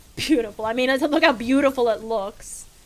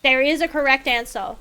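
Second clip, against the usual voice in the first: mock threat; 2 semitones higher, 3 dB louder than usual. Playful threat to chat.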